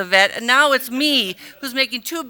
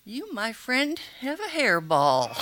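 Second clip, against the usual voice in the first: deadpan doctor; 7 dB quieter, slower than usual. Retold or imitated. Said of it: "and he goes".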